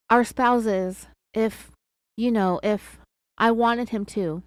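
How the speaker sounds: halting, broken into small pieces; imitated hesitation. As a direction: stall between phrases as if reluctant. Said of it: "and she's real hesitant".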